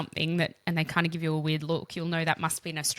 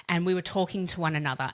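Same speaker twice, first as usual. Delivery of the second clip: ordinary delivery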